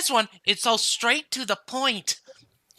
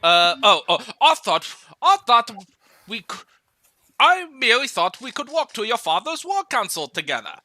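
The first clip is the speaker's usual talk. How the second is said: put-on Scottish accent. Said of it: "trying to do a Scottish accent".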